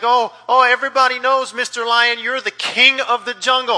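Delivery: hammed-up fear from a cornered giraffe; shaky giraffe. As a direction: cower like a frightened giraffe. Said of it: "very, you know, shaky and like".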